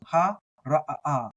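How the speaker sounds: "Ha, ra, ah, ah" with a stuttered double "ah"; slight stutter. Shown as a demonstration. Teacher demonstrating the tricky Ayin, slight stutter. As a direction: break "ah, ah" into two like a small stutter. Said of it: "a little bit of a stutter in there".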